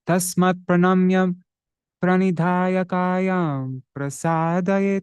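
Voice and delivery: slow, measured chant of a scripture verse; Sanskrit verse recitation. Acted. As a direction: intone the Gita verse steadily and slowly.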